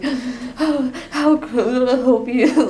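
slow mock-depressed phone voice; really depressed person. Teasing sick friend's phone greeting, slow hammed-up gloom. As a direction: imitate a miserable, stuffed-up worker. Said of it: "like this really depressed person".

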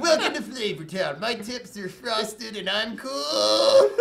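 slow, drawn-out TV chef voice; Guy Fieri impression. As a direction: ham up the celebrity chef. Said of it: "he's like".

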